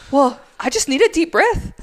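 mock defensive protest. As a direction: insist on it like the put-upon supervisor. Acted supervisor defending himself again.

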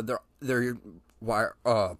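words catching in the throat, struggling; choking. Real, not acted. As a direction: voice catching on a choke. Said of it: "I'm choking up here".

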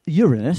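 "Uranus" stressed on the first syllable, YUR-uh-nus; new pronunciation. Shown as a demonstration. Host showing the changed name of a planet, new pronunciation. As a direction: say "Uranus" as YOOR-un-us. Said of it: "the pronunciation of Uranus to Uranus".

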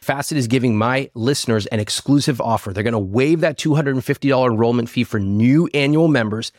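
lively sponsor pitch; ad read. Acted. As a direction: sell it like a podcast ad.

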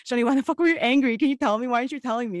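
confronting her cousin about hiding her anger, exasperated; mock angry demand.

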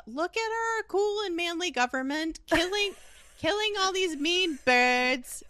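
high, loud, hammed-up Australian accent; badly faked Australian propaganda-film voice; terrible Australian accent. Government boasting in a propaganda film, bad high Australian accent. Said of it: "that's a terrible Australian accent".

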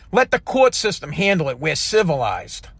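sarcastic mimic. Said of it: "people would say".

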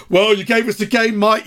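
smug, condescending jibe; patronising. Retold or imitated. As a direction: talk down to him, gloating. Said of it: "this horrible kind of patronising".

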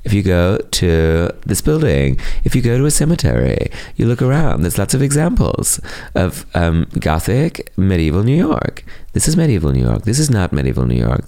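lightly voiced New York tour guide explaining medieval history; a mock New Yorker playing tour guide, only a hint of the accent. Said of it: "in that sort of New York voice".

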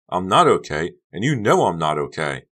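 loud, forceful insistence; angry insistence. A narrator's reading. Becca advancing on Honey, angry insistence. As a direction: push every phrase out angrily.

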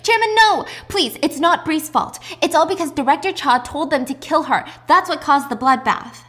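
high, loud, desperate acted protest; screaming plea. Intern screaming at the chairman to spare Bree, high and desperate. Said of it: "is screaming".

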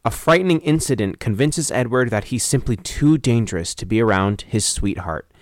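deliberate storyteller read, letting the ending drop; synopsis read-out. Real, not acted. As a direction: read the blurb aloud, measured. Reading out a film synopsis.

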